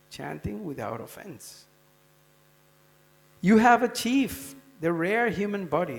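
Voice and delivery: loud, preaching call to the town. Retold or imitated. Lord Chaitanya calls out to the sleeping townsfolk, in a loud preaching call. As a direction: call out to wake the whole town. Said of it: "he calls out to the townsfolk".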